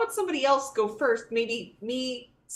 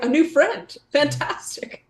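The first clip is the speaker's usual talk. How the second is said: higher-pitched mock enthusiasm; mock delighted character; 4 semitones higher, slower than usual. Player mimicking Callista welcoming the stranger, mock delight. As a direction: gush lightly as the eager friend. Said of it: "Callista's like".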